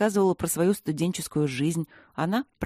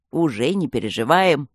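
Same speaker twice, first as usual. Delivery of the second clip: cheered-up gargoyle; 2 semitones lower, 5 dB louder than usual. A narrator's reading. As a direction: brighten up. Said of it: "повеселел Аристарх".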